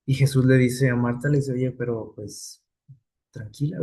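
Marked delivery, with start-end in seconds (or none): 1.5-3.8 calm her grief down softly; consoling. Retold or imitated. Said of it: "trata de, de consolarla". (consolando con voz suave y pausada)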